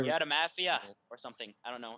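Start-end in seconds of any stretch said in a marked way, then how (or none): 0.0-0.8 put-on a half-hearted try at an Irish-sounding gnome accent; gnomish accent attempt. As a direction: fumble through a gnomish accent, a bit louder. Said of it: "What's a good gnomish accent?".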